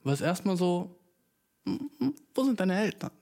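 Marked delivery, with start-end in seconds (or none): 1.7-3.1 higher-pitched puzzled question, hammed up; besorgte Nachfrage. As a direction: ask it like a baffled passer-by. Mock reaction to lone child. (verwundert nachgefragt, gespielt)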